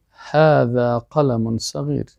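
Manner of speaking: slow, drawn-out Arabic reading; model sentence. Shown as a demonstration. Teacher showing how sentences are said, slow model reading. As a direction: say هذا قلم صغیر slowly, every vowel held.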